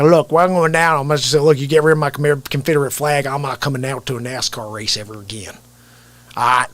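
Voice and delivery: folksy Southern man laying down an ultimatum; Southern accent. Acted. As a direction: put on a Southern twang. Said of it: "down in the South".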